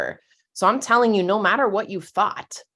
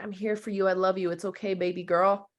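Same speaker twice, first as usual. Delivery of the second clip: put-on soothing a crying toddler; 3 dB quieter than usual. Shown as a demonstration. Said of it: "holding a toddler's face when they're crying".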